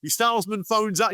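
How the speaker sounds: usual speaking voice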